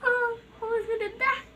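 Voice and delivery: laughing. Real, not acted. Still laughing after scare.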